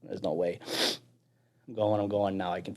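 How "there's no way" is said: whispered despair. Retold or imitated. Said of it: "and I'm like".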